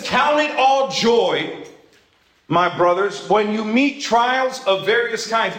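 slow, deliberate Bible reading; measured reading of scripture. Acted. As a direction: read each word of the verse with weight. Reads scripture aloud.

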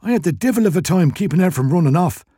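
wheezy shopkeeper complaining; burly Irish shopkeeper. A narrator's reading. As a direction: grumble as a put-upon Irish shop owner.

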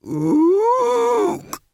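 high ape grunt; a knowing orangutan ook. A narrator's reading. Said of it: "said the librarian".

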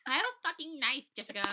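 high, loud mock-threatening yell; hammed-up threat shout. Friend repeats girl's threat to Jessica, high hammed-up shout. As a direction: yell it like an over-the-top threat.

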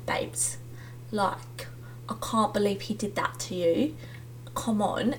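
hammed-up Love Island English accent; mock English accent. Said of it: "picture them being like".

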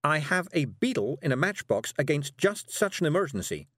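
high, lightly squeaky urgency; squeaking. A narrator's reading. Miss Level finds her beetle for an emergency, squeaking. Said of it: "squeaked Miss Level".

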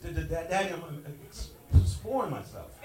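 mock stutter. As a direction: stammer the start like a shy boy. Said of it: "sometimes he has a little stutter".

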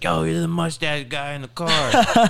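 high, loud, slow excited call-out; starstruck kid. Retold or imitated. Kid at the airport spotting Tristan, high loud slow excited call. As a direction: blurt it out like a thrilled young fan.

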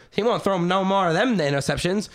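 lightly voiced old-time sideline heckler; a hint of a fifties football father; fifties dad. Podcaster voicing the fifties to the quarterback's dad, mock old-time voice.

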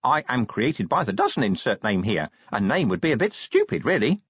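imp voice. Acted. Imp explains.

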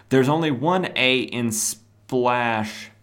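very slow, each word spelled out; slow pedantic. Acted. Ambush Bug correcting the splash page, slow pedantic. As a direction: drag it out like a know-it-all.

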